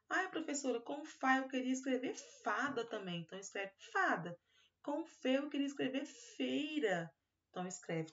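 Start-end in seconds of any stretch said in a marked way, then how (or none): 0.1-3.2 higher voice of a pupil asking the teacher; lightly voiced child asking. 4.8-7.1 higher voice of a pupil asking the teacher; lightly voiced child asking.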